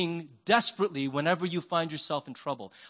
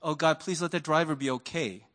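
concerned prayer; 4 semitones lower, 3 dB quieter than usual. Retold or imitated. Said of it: "this person next to me going".

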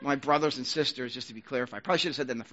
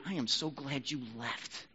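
cold sarcasm; 7 dB quieter, slower than usual. Pretend. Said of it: "But anti-loving is".

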